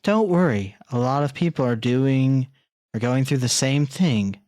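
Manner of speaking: mimicking a cliché comforting line; mock comforting. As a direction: parody a hollow pep talk. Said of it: "I always hated hearing".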